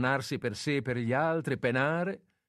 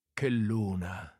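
exclaiming; much slower than usual. Acted. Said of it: "esclamò anche lui appena fuori".

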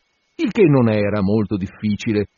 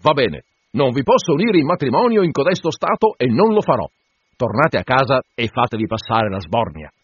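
peremptory; 3 semitones higher than usual. Acted. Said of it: "disse in tono perentorio".

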